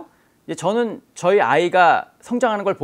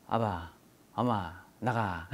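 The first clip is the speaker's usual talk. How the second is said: put-on toddler first words; 9 semitones lower, 12 dB quieter, much slower than usual. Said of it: "처음 말을 배울 때 하는 말이".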